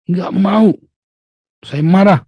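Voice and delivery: mock childish pout; sulky refusal. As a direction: pout it out like a stubborn kid. Sulky believer mimicked.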